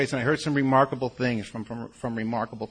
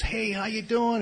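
higher-pitched, glad-to-see-you hello; happy greeting; 10 semitones higher, slower than usual. Retold or imitated. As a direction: imitate a delighted welcome, pitched high. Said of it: "he acted really happy to see me".

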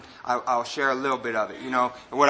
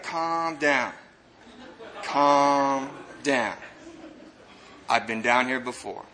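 calm reassurance; 2 semitones lower, 3 dB quieter, much slower than usual. Retold or imitated. Recovering addict to panicking man in the hole, acted calm reassurance. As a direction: settle him down, unhurried and steady. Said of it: "He's like".

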